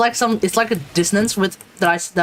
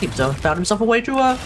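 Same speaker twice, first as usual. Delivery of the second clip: hammed-up pompous British voice, swooping pitch; pompous British accent. Streamer plays a Brit dismayed at the colonial convict, pompous mock-British accent. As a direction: play a stuffy, disappointed Brit, badly faked. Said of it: "I just try to act all pompous".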